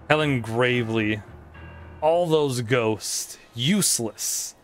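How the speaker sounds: lightly voiced gloating ghost king; a hint of a smug villain; King Boo voice. Voices King Boo's dialogue.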